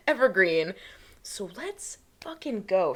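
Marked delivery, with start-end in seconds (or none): 1.2-2.9 slow, drawn-out let's go; hype intro. Real, not acted. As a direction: stretch it out to pump up the episode. Hyping up the episode.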